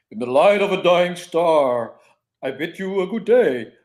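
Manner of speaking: put-on loud, high, theatrical old-fashioned stage declamation. Making small talk with a stranger in character: Shakespearean voice. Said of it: "in a Shakespearean voice".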